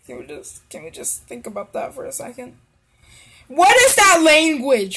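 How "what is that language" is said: loud, higher-pitched disbelief; baffled outburst. Real, not acted. Reactor questioning the character's odd slang, loudly baffled.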